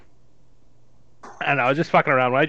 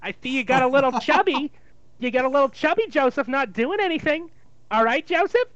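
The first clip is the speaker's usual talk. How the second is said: Jewish mother; 3 semitones higher than usual. Acted. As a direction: fret over him like a Jewish mother. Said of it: "a Jewish mother".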